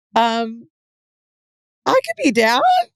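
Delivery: very slow, unsure, swooping, drawn-out put-on sing-song. Retelling own unsure answer to a proposition, in a put-on high-pitched voice. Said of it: "I'm like doing a high pitched voice".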